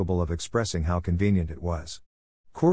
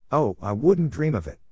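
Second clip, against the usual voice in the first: smooth, higher-pitched disclaimer; 6 semitones higher than usual. A narrator's reading. Harry denies luring Draco's minions away, smoothly. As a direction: glide through it, pitched up, smoothly. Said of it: "Harry said smoothly".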